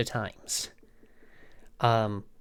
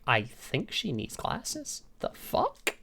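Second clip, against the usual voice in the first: a quiet, breathy whisper shared with the manager; hushed aside; 8 dB quieter, much slower than usual. Retold or imitated. Manager and customer stare at each other, hushed whisper. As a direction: drop right down as if only the manager should hear.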